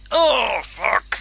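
high, loud startled curse; panicked Carl. Acted. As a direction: blurt it like a startled victim. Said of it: "says Carl".

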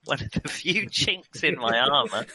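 slow, deliberate repeat of the phrase; careful repeat. Real, not acted. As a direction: say it slowly to clear up a mishearing. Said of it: "What was that again?".

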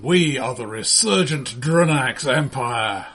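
slow, grand announcement; grand proclamation. Acted. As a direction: proclaim it like an anthem. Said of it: "cue the national anthem".

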